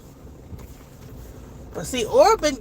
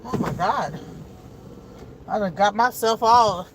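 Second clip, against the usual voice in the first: teary; 3 semitones lower than usual. Real, not acted. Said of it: "little tears are coming out my eyes right now".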